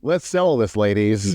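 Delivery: hammed-up patronizing man; mock macho man. Mocking John Barlow's line.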